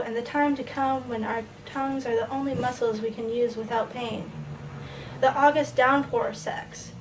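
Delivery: even, list-like poem recital; poetry reading. Acted. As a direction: build the list phrase by phrase, with pauses between.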